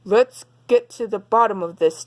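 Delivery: a hint of a gruff big bear; growling papa bear. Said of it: "Daddy Bear growled".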